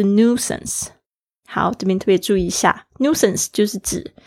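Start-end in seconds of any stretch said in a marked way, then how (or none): 0.0-0.9 "nuisance" American style, plain noo-sance; American "nuisance", no y glide; American pronunciation. Shown as a demonstration. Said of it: "美式发音是nuisance".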